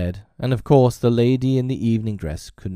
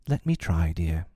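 calm, unhurried offer; gently composed wife; placid; 3 semitones lower than usual. Acted. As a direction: answer evenly, unruffled. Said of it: "Missus Darling was placid".

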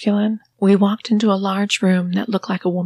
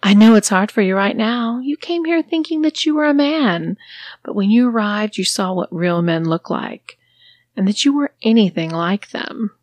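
condescending mistress; 3 semitones higher than usual. Acted. Mistress lectures her sissy about real men, mocking. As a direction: belittle him gently.

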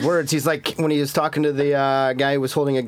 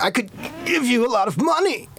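higher, oddly stressed line reading; awkward emphasis; 8 semitones higher than usual. Retold or imitated. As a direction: mimic a stiff actor's delivery. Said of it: "he did have really awkward emphasis on his words".

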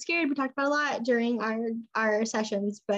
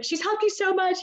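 mom quoted; 8 semitones higher than usual. Retold or imitated. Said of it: "she's like".

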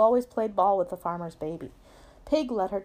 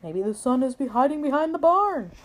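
higher, lightly voiced cow; pitched-up read-aloud cow; storybook cow; 5 semitones higher than usual. A narrator's reading. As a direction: suggest it as the helpful cow. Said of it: "said Cow".

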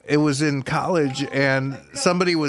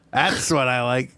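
sarcastic; 3 semitones lower than usual. Retold or imitated. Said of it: "Eric sarcastically started applauding".

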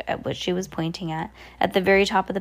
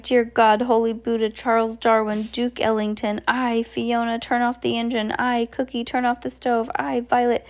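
higher, flustered rush of orders; panicked captain barking commands; a frantic sea captain in a flap; crying out in astonishment; 5 semitones higher than usual. Acted. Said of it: "began crying out in astonishment".

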